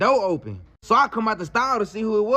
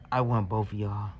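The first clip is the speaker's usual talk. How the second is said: lower, softer creepy whisper; mock whisper; 10 semitones lower, 7 dB quieter than usual. Woman whispering her wish to the men. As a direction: breathe it low and secretive. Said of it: "I heard her whisper".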